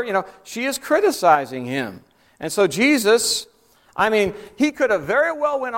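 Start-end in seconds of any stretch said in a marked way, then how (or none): none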